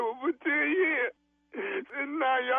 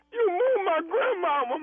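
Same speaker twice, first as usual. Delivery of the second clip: fake crying; 4 semitones higher than usual. Prankster fakes grief over grandma.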